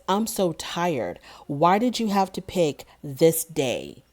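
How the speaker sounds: slow, dragging mock-tired whine; slowed-down mock whine of a tired boyfriend; whiny tired complaint. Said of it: "he's complaining of being tired".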